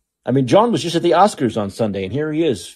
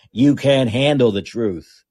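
a slow, drawn-out hint of Jack Nicholson; slow Nicholson impression; slower than usual. Shown as a demonstration. Host tries Nicholson again for his listeners, slow and deliberate. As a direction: lean into each word like Nicholson, slowly. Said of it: "That's not bad".

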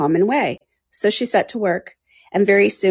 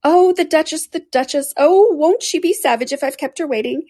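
anxious rabbit; 7 semitones higher than usual. A narrator's reading. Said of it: "muttering to himself as he came".

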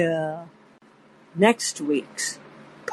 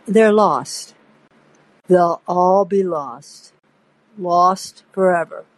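a touch of sorrow, slowing down; sadly; 2 semitones lower than usual. Retold or imitated. Hunter hands over pages, mildly sad. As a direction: Hunter mournfully predicts the pages' fate.

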